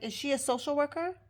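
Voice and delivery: high, quick doubting question; imitated condescension. Instructor doubts the field supervisor, condescending. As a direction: mimic a condescending challenge, pitch climbing. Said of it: "in such a condescending way".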